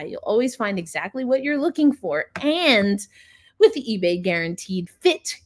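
polished, upbeat sponsor read. Acted. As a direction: sell it like a podcast sponsor spot. Reads a sponsor ad.

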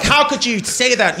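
a hint of a high, scandalized kid; woke kid. Woke kid objecting to dad's remark, lightly mimicked outrage. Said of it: "woke kid was like".

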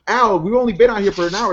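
Peg Bundy. Retold or imitated. Peg to Al, stranded at sea, lightly mimicked complaint. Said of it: "Peg's like".

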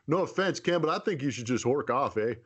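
hammed-up Canadian accent, tagging eh onto lines. Teasing a listener's letter in a joking Canadian accent. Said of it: "That's a great Canadian accent".

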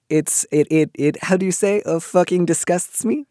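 a deliberately bad, hammed-up French accent. Host jokingly voicing disgust at the letter writer in a bad French accent. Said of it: "that was a very bad French accent".

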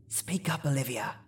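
soft hushed urging; whispering from behind the camera. A narrator's reading. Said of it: "I heard her mother whisper".

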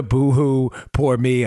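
mock poor-me, lightly tossed off; sarcastic self-pity. Host joking about early mornings, sarcastic. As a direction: play at feeling sorry for yourself, jokingly. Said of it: "I say that sarcastically".

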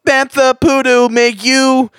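high-pitched, desperate ad read; frantic pleading. Pretend. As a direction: wail the promo like a hostage begging. Frantic begging to end the ad.

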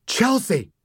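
high yelled name. A narrator's reading. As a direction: call her sharply. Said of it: "Daddy yelled".

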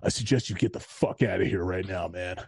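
low, restrained mock warning; stern EMT. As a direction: imitate a medic warning someone off. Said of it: "this one E M T guy just gets up and he goes".

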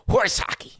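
high, breathy scoff. Real, not acted. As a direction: scoff at it dismissively. Scoffing at umpires' claim.

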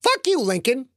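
gnome voice. Acted. Gnome Bingles cursing at Lincoln, high snarling creature voice. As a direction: spit it at him like a nasty gnome. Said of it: "the gnome said".

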